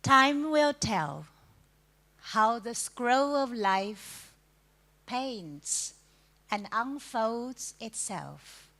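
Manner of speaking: measured poetry reading with long pauses between lines; poem recitation. Acted. Poet reading to the audience about time, measured recitation. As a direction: let each phrase stand alone, lifting each refrain. Reads own poem aloud.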